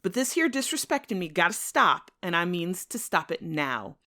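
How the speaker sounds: threatening white man. Acted. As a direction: lay down the law, cold and menacing. White man threatens Tom after shooting.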